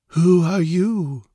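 slow, high, dreamy question; far-away and detached. A narrator's reading. Dreamy stranger questioning two intruders, far-away and detached. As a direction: ask as if from inside a dream. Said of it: "in a far-away, detached tone".

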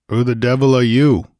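rough, hostile demand; growling. Acted. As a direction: growl it at the stranger. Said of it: "he growled".

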